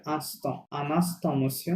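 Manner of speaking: "আনাস্ত মসিও" drawn out for a learner; built up by sounds. Shown as a demonstration. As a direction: slowly model "আনাস্ত মসিও", IN as ah plus S. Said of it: "ওর সাথে এস add করো". (ধীরে টেনে "আনাস্ত মসিও" শেখানো)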